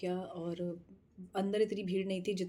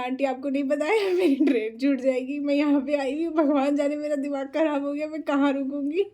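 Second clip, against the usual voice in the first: higher, louder flustered rant; explaining to the laughing aunty, loud and flustered; frantic explanation; 6 semitones higher, 8 dB louder than usual. Retold or imitated. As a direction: pour it out in a panic. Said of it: "मैंने कहा".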